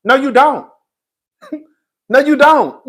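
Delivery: laughing while denying it. Real, not acted. Streamer laughing at Suki's bragging, laughing denial. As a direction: laugh through the no.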